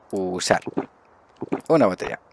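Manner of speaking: ordinary delivery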